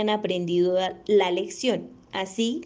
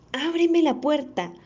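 wolf voice; 4 semitones higher than usual. Acted. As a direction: threaten like the big bad wolf. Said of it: "dijo el lobo feroz". (voz de lobo feroz)

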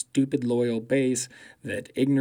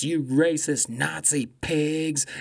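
retold angry jeer; 3 semitones higher, slower than usual. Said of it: "going at these fucking Trumpers".

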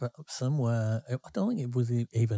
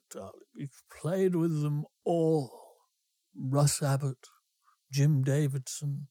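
tipsy landlady; 2 semitones higher than usual. Retold or imitated. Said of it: "she was called Missus Ridges".

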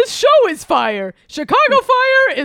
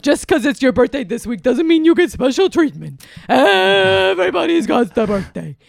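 boisterous birthday clown; 4 semitones lower than usual. Acted. Bunny voice continues.

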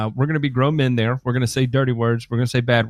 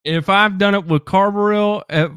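excited rant; 4 semitones higher than usual. Real, not acted. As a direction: push the point, getting worked up. Heated rant about spraying.

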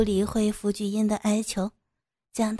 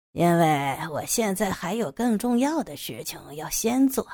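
a leisurely captor's voice with swooping tune; lightly voiced menacing villain; 5 semitones lower than usual. Captor to the drugged teacher, lightly voiced gloating villain. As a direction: lightly play a villain toying with his captive.

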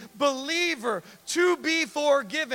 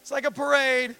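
mock cheerful lepers; 6 dB louder than usual. Lepers mockingly waving at parade.

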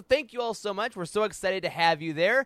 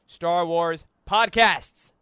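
dramatic reveal; 2 semitones lower, 6 dB louder, much slower than usual. Acted. Dramatic reveal in read letter.

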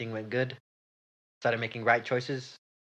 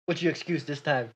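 loud boss calls out the late worker; angry boss; 5 semitones higher, 9 dB louder than usual. Acted. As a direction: bellow his name like a furious manager. Boss voice, role swap.

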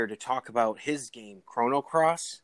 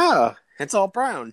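high, slow, dismayed bystander; drawn-out disappointed onlooker; mock dismayed onlooker; 8 semitones higher, 6 dB louder, slower than usual. Imitating spectators at fireworks.

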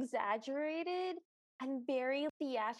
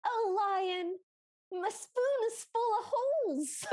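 high, loud pleading wail; a hammed-up sobbing plea; whiny girl voice; 6 semitones higher, 5 dB louder than usual. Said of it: "And then she goes".

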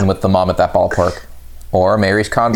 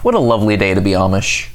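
put-on wholesome 1950s kid; 10 semitones higher than usual. Amish character in sketch.

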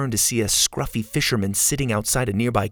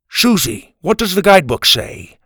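high, louder grandpa demanding help; urgent calling out; 7 semitones higher, 5 dB louder than usual. A narrator's reading. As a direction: call across to the girl urgently. Grandpa calls out in danger.

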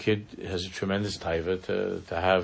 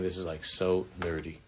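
eye-roll; 4 semitones lower, 5 dB quieter than usual. Retold or imitated. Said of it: "she's rolling her eyes and saying".

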